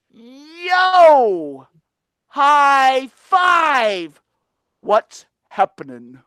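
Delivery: loud, high cheeky yo; brash Tacky. Acted. Tacky the odd bird greeting friends rudely. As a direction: bust in loud and goofy. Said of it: "Tacky goes".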